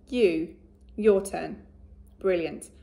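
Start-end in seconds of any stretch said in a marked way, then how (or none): 0.1-1.6 you said slowly and loudly; slow modelled word. Shown as a demonstration. Teacher models you for the children, slow and loud. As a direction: hold you out slowly for copying. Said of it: "My turn".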